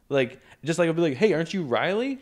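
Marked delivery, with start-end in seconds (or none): 1.2-2.2 high-pitched re-enacted greeting; lifted, questioning name check; casual name call. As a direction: ask as if recognising someone by name. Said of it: "that's how I say their names".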